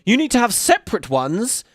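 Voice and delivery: mocking a whiny fan, rising to indignant; whiny complaint. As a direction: whine like an entitled fan. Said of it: "throw the hissiest of fits".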